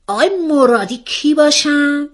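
high, startled question, pitch jumping up; excited demand. A narrator's reading. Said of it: "مثل یک ترقه از جا پرید".

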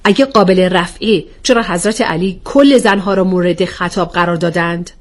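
a touch of protest in the question; mild objection. Acted. Rahele still objects to blaming all women, mildly protesting. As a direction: push back, still not convinced. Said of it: "راحله هنوز معترض بود".

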